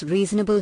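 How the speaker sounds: "reasonable" given a measured emphasis; stress on "reasonable". A narrator's reading. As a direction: lean gently on the word "reasonable". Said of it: "he emphasized the word".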